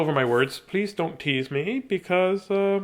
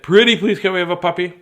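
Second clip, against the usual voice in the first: pleading; 5 dB louder than usual. Real, not acted. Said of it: "What if I said".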